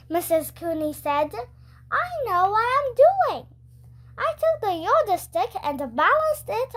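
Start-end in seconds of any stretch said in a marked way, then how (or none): 1.9-3.5 she's sure she knows best; lightly voiced confident school nurse; nurse voice, insistent. A narrator's reading.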